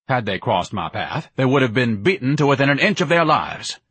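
mildly indignant grandiose tirade; orating, slightly worked-up snob; lightly voiced pompous son. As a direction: hold forth with a touch of pomposity.

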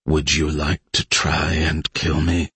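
low, soft, measured intoning; intoned. Acted. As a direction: intone it coldly and quietly. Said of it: "Elise intoned".

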